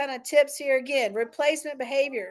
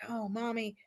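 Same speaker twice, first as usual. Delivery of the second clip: put-on quiet child voice; 11 dB quieter than usual. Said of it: "come to you quietly".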